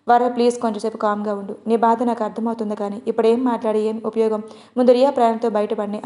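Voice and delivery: ordinary delivery, nothing marked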